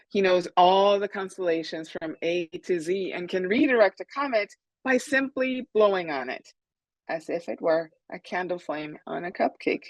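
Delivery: put-on lively picture-book reading to children; story read-aloud. A narrator's reading. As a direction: read it out with emphatic key words. Author reads her story to children.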